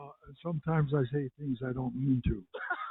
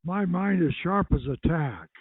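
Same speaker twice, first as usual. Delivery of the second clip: catchphrase line; 8 dB louder than usual. Shown as a demonstration. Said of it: "saying his line".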